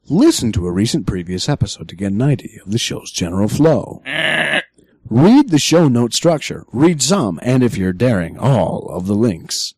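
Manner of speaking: automated-announcer style guideline read; measured announcer delivery with swooping emphasis. Shown as a demonstration. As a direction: read the rules like an official recorded announcement. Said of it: "I'm using my announcer voice".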